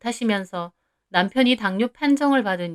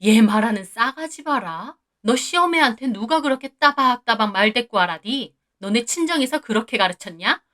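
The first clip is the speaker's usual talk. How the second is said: irate mother-in-law. Acted. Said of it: "더 역정을 내시고요".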